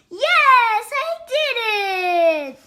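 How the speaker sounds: high, triumphant squeal; happy, proud cheer. Acted. The vet celebrates the bark at last, proud high cheer. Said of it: "He's so excited and happy and proud".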